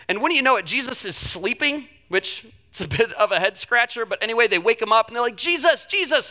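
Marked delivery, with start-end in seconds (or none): 5.4-6.3 much higher, urgent calling of the name; mock panic. Disciples waking the sleeping Jesus, mock panic. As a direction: wake him up in a retold panic. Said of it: "and they're in a panic".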